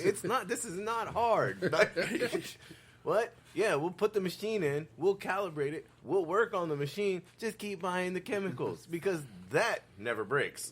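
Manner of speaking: mock salesman. Mocking the chemical company's pitch, laughing. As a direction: ham up the easy sell.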